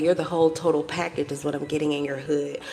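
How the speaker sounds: hushed secretive voice; whispering. Real, not acted. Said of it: "I'm, like, whispering".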